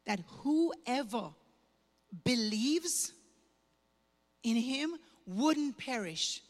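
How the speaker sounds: slow, reverent verse with long pauses; solemn scripture recital. Retold or imitated. Woman quoting the preacher's verse to the congregation, slow and reverent. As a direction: let each word of the verse land.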